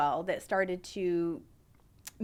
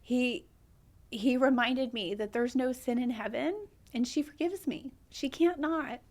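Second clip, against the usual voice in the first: higher, tearful but holding on; choked up; 3 semitones higher than usual. Real, not acted. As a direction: talk through a lump in the throat. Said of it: "I get choked up".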